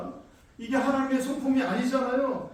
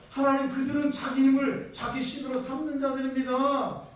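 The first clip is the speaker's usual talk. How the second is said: prophet's protest; 4 semitones higher, 4 dB louder than usual. Acted. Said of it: "십일 절 말씀해 보니까".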